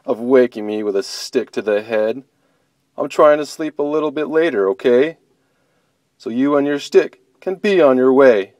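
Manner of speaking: annoyed bear shooing her off; sleepy grumpy bear. Acted. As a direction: grumble like a woken bear. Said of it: "the sleepy voice said".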